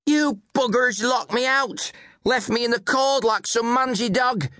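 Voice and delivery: high, loud, furious complaint; drunken cursing. A narrator's reading. Drunken mother bursting in at her family, cursing loudly. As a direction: curse the whole household at a yell. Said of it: "she moaned and cursed".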